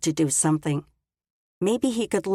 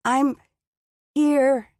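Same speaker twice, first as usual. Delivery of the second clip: weak, slurred words; 8 semitones higher, 4 dB louder than usual. Acted. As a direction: mumble like a half-frozen woman. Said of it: "The words sounded so garbled".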